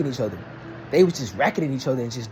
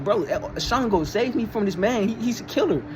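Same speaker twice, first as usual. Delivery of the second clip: a higher, mock frightened plea for rescue; mock scared plea; 6 semitones higher than usual. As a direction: act out a scared woman begging lightly.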